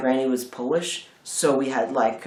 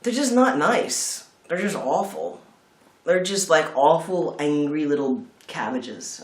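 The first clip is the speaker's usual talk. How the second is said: disgusted; 2 semitones higher, slower than usual. Real, not acted. Disgust at Brussels sprouts.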